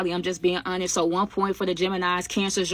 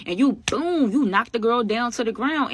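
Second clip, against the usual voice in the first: excited; 4 semitones higher, 3 dB louder than usual. Retold or imitated. Retelling the assault, animated.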